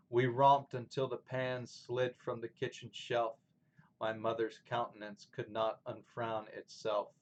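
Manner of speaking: measured poem reading with firm beats; poem recitation. Acted. Teacher reading My Papa's Waltz to students, poem recitation. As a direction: read each line as rhythmic verse, pausing at line ends.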